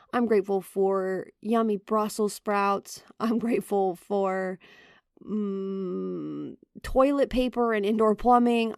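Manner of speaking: grudging, half-hearted grumbling through the list; mock annoyed listing. Shown as a demonstration. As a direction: list thanks like a sulky child in a mock tantrum. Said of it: "In a mad or annoyed voice".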